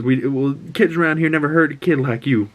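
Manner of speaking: rising to a high defiant outburst; Ellie cussing back. Retold or imitated. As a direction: build up and fire off the curse. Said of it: "and she goes".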